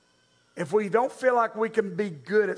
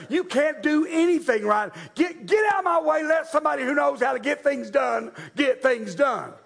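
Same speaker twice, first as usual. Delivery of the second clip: scornful shout; 3 semitones higher than usual. Retold or imitated. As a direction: tear into him, shove him aside. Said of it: "She said".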